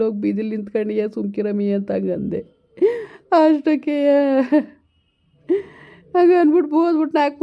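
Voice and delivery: a hint of a lamenting old grandfather, pleading; old grandpa begging his grandson to come, mildly lamenting; lightly voiced old grandpa. Grandpa on the phone to grandson Madeva, mildly lamenting.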